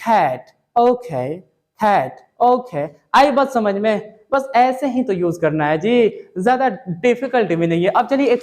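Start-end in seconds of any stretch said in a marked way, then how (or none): 0.1-2.9 cat, okay drawn out word by word; very slow demo. Shown as a demonstration. Teacher slowly models cat, okay for the class. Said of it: "चलो, कैसे बोलना है?".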